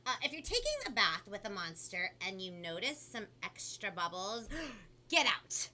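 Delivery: animated storybook reading with punched key words; lively, theatrical story narration; picture book read-aloud. A narrator's reading. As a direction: read it to children with big swoops of pitch. Reads picture book to children.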